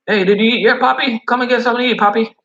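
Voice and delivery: put-on high, fussing older Spanish lady; cafeteria lady. Cafeteria lady urging the delivery driver to eat, high and doting. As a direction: coax him to eat like a doting mother. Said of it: "Spanish cafeteria lady voiced".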